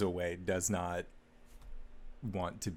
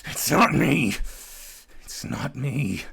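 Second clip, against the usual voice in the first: high, loud, pleading it's not me; panicked denial; 7 semitones higher, 11 dB louder than usual. Acted. Kefris waking from the nightmare, pleading loud and high. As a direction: gasp it out in terror.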